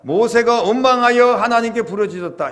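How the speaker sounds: high, loud emphatic cry; complaining outcry. Acted. Preacher rewording scripture as if Moses had grumbled, loud outcry. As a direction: proclaim it forcefully, pitched high. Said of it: "만약에 모세가 원망했다면".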